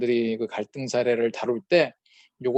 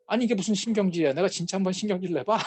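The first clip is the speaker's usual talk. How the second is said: higher, fast defensive comeback; higher-pitched, faster annoyed denial; mock irritated retort; 6 semitones higher, faster than usual. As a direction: play someone bristling at the accusation. Acted irritated reply.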